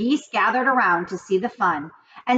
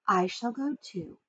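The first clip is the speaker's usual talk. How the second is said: much softer, calm and firm; softly; 9 dB quieter than usual. A narrator's reading. Charlotte tells the animals she will go, softly. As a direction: say it quietly, decided. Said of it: "she said softly".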